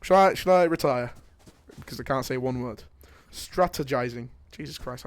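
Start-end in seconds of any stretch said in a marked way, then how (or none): 3.3-4.3 "Strategizing" sounded out carefully, syllable by syllable; low, deliberate "Strategizing", completed without a slip; saying it slowly. Real, not acted. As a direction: take your time over each syllable of "Strategizing". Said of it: "I need to say it slowly".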